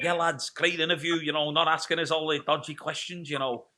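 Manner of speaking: a lightly put-on, poor Liverpool accent; half-hearted Scouse impression of a teammate, Liverpool accent; bad Liverpool accent. Host mimics Aaron McGowan's praise in a weak Liverpool accent. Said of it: "world's worst Liverpool accent".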